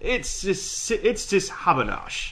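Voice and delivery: slow, smug reassuring sign voice; mock-soothing smarmy tone; smarmy mock quote. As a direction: read it like a smarmy bus sign. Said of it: "smarmy fucking bus signs that say".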